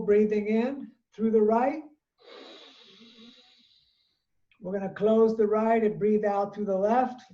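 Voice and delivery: measured yoga teacher cueing; even, spaced-out breathing cues; guided breathing instruction. Real, not acted. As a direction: lead the class breath by breath, with long pauses. Leads alternate nostril breathing practice.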